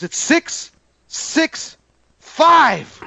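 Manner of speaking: slow, whispered drawn-out reveal; dad's spooky tease. Retold or imitated. Dad teasing his scared son about the number, slow whispered reveal. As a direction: hush it out slowly to spook the kid.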